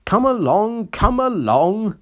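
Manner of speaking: high, loud chuffing chant; puffing engine. A narrator's reading. Engine puffing to hurry the coaches. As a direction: chant it in time with the pistons. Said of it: "he puffed".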